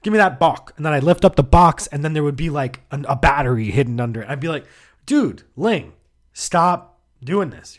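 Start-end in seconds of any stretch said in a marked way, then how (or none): 0.0-0.7 put-on loud, high Taiwanese-accented demand, "bok" with the ending dropped; hammed-up Taiwanese accent on "bok"; mock Taiwanese accent. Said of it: "He'd say". 5.1-7.8 loud, high, drawn-out plea; mock-freaked-out protest; exasperated protest. Teen protesting to spooky coworker.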